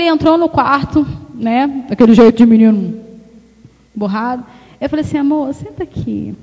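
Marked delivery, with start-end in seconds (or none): 5.2-6.3 soft gentle invitation; tender call to the husband. Shown as a demonstration. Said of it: "Aí você muda o tom de voz".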